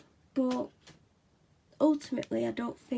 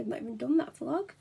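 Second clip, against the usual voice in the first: usual speaking voice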